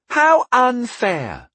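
high, drawn-out mock wail; mocking moan. A narrator's reading. Apprentice teasing over modesty accusation, mocking moan. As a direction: moan it slowly in exaggerated self-pity. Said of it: "Tyndall moaned mockingly".

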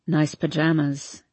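put-on low, slow, lazy drunk; a hint of a drunk young man; town drunk. Hardin's voice.

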